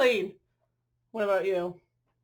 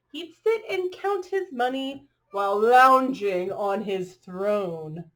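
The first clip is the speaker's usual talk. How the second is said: bright, rhythmic picture-book read-aloud; reading to children; 4 dB louder, slower than usual. A narrator's reading. Reading a rhyming dog story to children, lilting storyteller voice. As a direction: read the rhyme to the little ones.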